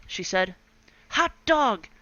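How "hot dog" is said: high, loud cheer; excited cry. Acted. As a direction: whoop with relief. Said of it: "cried the kids".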